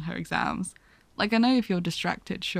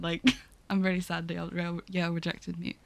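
fast, softer mock sadness, fading; mock sad; 2 semitones lower, 5 dB quieter than usual. Retelling a film scene, faking sadness quietly. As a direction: fake disappointment trailing off. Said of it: "And she's like".

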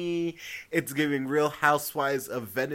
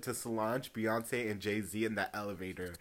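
whispered aside; 7 semitones lower, 10 dB quieter than usual. Real, not acted. Gossiping to viewers about celebrity drama, whispered. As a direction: drop to a secret whisper.

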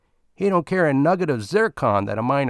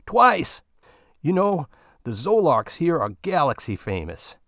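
Bill boasting about the best Zolark of his life; gleeful boast; 5 semitones higher than usual. Acted. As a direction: brag like a satisfied customer.

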